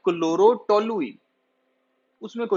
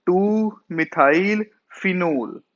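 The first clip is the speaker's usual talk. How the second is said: slow repeat; much slower than usual. Shown as a demonstration. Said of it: "क्या बोलते हैं हम इसको".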